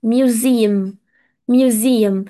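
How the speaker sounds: Museum repeated as "myoo-ZEE-um", evenly; careful correct pronunciation. Shown as a demonstration. Teacher repeating for students to pronounce properly, Museum said carefully as "myoo-ZEE-um". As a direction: model Museum clearly, with a long "zee". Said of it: "هدفي هنا إن إحنا برضو ننطق صح".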